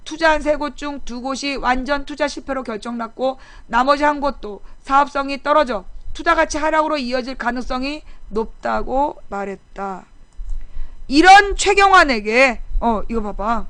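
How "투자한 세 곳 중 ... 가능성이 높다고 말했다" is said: softer, low-key article reading; news article read-out. Real, not acted. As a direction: read the report out quietly and evenly. Reads a news article aloud.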